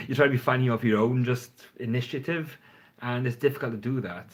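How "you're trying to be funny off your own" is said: repeats it again through a real laugh, quicker and louder; chuckles the line back out at himself. Real, not acted. Vlogger laughing at his own point on funny videos.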